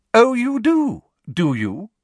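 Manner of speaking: high sharp retort, full voice; forgetting to whisper. A narrator's reading. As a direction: drop the whisper and bite back. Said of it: "forgetting to whisper".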